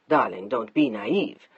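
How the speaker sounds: a man brushing off his wife's worry; patronizing husband. Acted. Mark dismissing his wife, low and slow.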